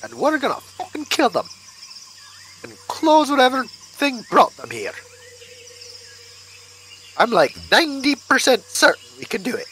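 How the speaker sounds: talking through soup; words round a spoonful; mouth full. Real, not acted. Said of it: "Sorry, I'm eating soup".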